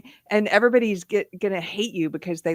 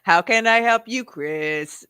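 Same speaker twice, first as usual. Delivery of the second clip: robot assistant; 4 semitones higher, 3 dB louder, slower than usual. Pretend. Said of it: "Siri talk like that".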